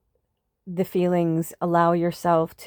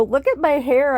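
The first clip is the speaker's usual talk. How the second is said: higher, half-laughing mock wail; retold tearful whine; 7 semitones higher, 4 dB louder than usual. Vlogger retelling yesterday's crying over hair, mock whine. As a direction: wail it lightly, making fun of yourself. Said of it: "when I was crying yesterday".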